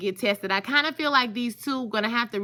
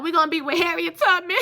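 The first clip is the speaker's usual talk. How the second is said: still loud; 7 semitones higher, 4 dB louder than usual. Real, not acted. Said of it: "Why am I talking so loud?".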